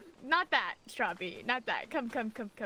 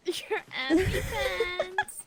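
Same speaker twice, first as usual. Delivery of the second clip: laughing echo; 4 semitones higher, 3 dB louder, much slower than usual. Pretend. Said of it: "echoing mom's reminder".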